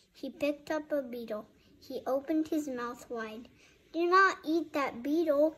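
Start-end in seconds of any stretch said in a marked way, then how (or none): 3.9-5.5 loud, higher-pitched warning; yelled. A narrator's reading. Cork stops Fuzz eating the beetle, yelling. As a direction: yell to stop him at once. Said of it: "Cork yelled".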